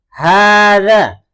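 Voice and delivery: "Hada" drawn out loud and slow; slow model reading. Shown as a demonstration. Teacher leading the class in reading, slow loud recitation. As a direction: lead the class in reading it slowly. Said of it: "Sekali lagi kita baca bersama-sama".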